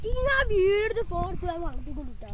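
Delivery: loud calling out. Real, not acted. Boy announcing his plan to friends, calling out loudly. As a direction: start high and loud, come down at the end.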